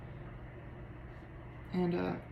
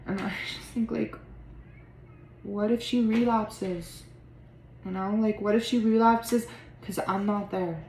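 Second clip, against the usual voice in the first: louder, heated frustration; angry; 3 dB louder than usual. Acted. Talking about Rue's sobriety, angry and burdened. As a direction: let the resentment push the words out. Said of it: "I feel angry at Rue".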